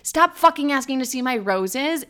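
firm, irritated retort; retold exasperated order to back off; very pissed. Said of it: "I'm very pissed".

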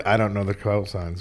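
ordinary talk

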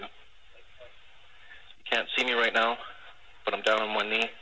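proposal over tinny radio; heartfelt announcement over a crackly radio; air traffic control radio. Real, not acted. Played air traffic control recording.

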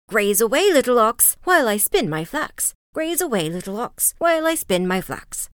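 lightly calling, lilting rhyme; crying out. A narrator's reading. Old woman sends ox grazing while she spins, calling out. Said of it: "and cried".

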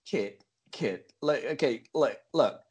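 hammed-up American big talk; put-on American accent.

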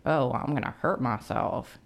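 put-on a slight, accidental Southern accent. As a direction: let a touch of Southern accent slip in, softly. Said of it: "you just had a Southern accent".

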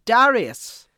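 high, loud sing-song thanks; excited roll call. Acted. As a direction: call each name like a gameshow host.

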